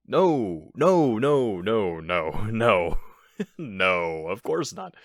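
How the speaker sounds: loud, fast no no no with nervous laughs; flustered giggling protest, a bit too loud; nervous laughing denial. Acted. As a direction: laugh off the accusation too hard. Burglar nervously denies robbing.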